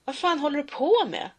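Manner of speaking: bully yelling from behind; bully's yell. Acted. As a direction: bark it at the fleeing kid. Bully yells at victim.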